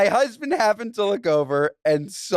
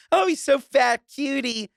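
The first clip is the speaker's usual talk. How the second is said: cooing fat; 8 semitones higher than usual. Retold or imitated. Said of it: "or even saying".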